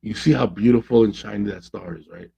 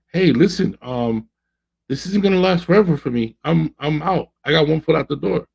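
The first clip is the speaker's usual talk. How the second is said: higher, an urgent woman giving a last warning; pleading warning; 6 semitones higher than usual. Retold or imitated. Coach voicing the girlfriend warning her man, higher and urgent. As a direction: raise the pitch and plead, one foot out.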